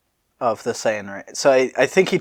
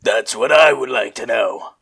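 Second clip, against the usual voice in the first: Vegeta voice. Acted. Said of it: "Vegeta says".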